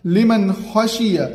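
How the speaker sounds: slow, clear नून before खो; slow clear reading of लिमन खशिया; izhar recitation. Shown as a demonstration. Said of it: "इजहार होगा".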